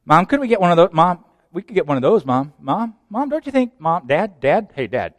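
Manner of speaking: put-on light childlike wheedling; a touch of a nagging child; whiny kid begging. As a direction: pester parents like a kid in the aisle.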